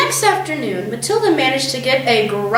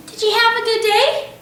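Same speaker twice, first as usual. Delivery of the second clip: pleasant; 10 semitones higher than usual. A narrator's reading. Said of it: "she said pleasantly".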